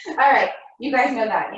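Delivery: words through a laugh; chuckling as you say it. Real, not acted. Laughs at her own joke.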